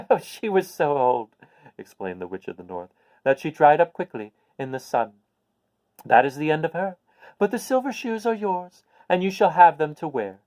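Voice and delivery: put-on a little old witch, pleased to share good news. Witch explains shoes.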